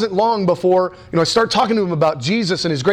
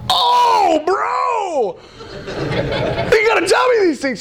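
excited shout; slower than usual. Retold or imitated. Telling his friend in disbelief, high excited shout. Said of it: "And I go".

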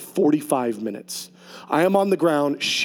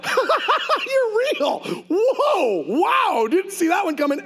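high, laughing disbelief; giddy laughing awe, pitched way up; much slower than usual. Retold or imitated. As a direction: gasp it out through laughter, amazed.

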